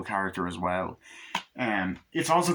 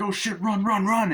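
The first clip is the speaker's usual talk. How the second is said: high, loud panicked shouting; mock panic; 11 semitones higher, 3 dB louder than usual. Kids panicking as they run, high and loud. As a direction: yell it while fleeing.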